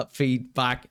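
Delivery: ordinary talk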